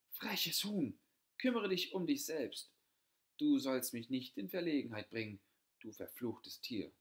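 loud, high furious scream at the hen; angry shout. A narrator's reading. Older sister screaming at the cheeky hen, furious and loud. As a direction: yell at the bird, stone in hand. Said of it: "Sie nahm einen Stein und schrie".

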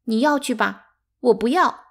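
high, loud sobbing protest; tearful refusal. A narrator's reading. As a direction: refuse through tears. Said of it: "八姐擦着眼泪说". (擦着眼泪大声说)

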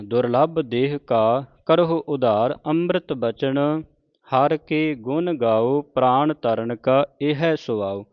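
slow, measured Gurbani reading; measured devotional recitation; scripture recitation. Acted. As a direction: recite each phrase deliberately, drawing out the vowels.

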